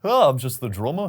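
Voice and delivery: put-on light Scouse accent, playful; a quick jokey Liverpool accent. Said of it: "not sure on my Liverpool accent there".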